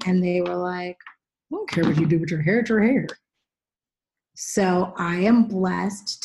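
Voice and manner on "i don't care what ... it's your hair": dismissive. Retold or imitated. Quoting producers' offhand reply.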